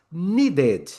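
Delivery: "Needed" as need-id, two clear beats; two syllables. Shown as a demonstration. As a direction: sound a separate "id" in "Needed". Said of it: "passa a ter duas".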